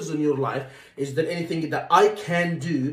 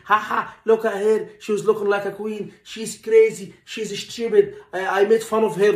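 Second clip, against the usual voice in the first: higher, louder, jeering colleague laughing at a patient; mocking colleague; 5 semitones higher, 4 dB louder than usual. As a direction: jeer like a colleague making fun of her.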